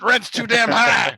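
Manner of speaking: mock catchphrase shout. Joke shout of a famous catchphrase.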